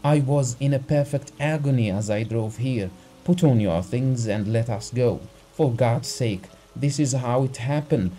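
a terrified husband begging for help; frightened urgency. Acted. Husband begs the doctor to come, frightened and pleading. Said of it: "spoke quickly in a shaking voice".

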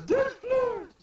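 very high, loud acted yell; shouted attack call. Robin using her power, high acted shout.

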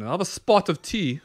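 half-hearted British tea order; British accent. Pretend. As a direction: try a sudden mock British accent. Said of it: "do a pretty good British accent".

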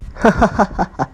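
a short sneering laugh; scornful laugh. Acted. Rival laughs scornfully at the husband, sneering laugh. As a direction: laugh down at him with contempt. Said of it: "เวนเดลหัวเราะอย่างดูถูก".

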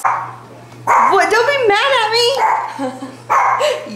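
very high, cutesy plea; high-pitched coaxing, playful. Real, not acted. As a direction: plead in a squeaky pet voice. Playfully pleading with her dog.

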